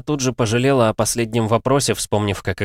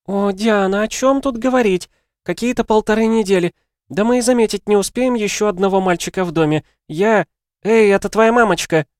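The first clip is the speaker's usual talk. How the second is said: high, excited woman's voice; breathless friend overwhelmed with news; flustered Helen; 12 semitones higher, 4 dB louder than usual. Acted. Helen on the phone to Diana, high and flustered.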